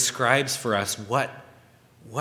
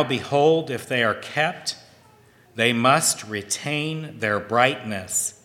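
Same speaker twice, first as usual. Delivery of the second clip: scripture reading. Acted. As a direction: read the verse like holy writ. Reads scripture aloud.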